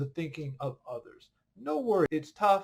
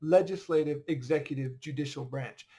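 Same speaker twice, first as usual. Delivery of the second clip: corrected order; 3 semitones lower than usual. Shown as a demonstration. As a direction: correct himself, Constitution order. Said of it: "the way it appears in the Constitution".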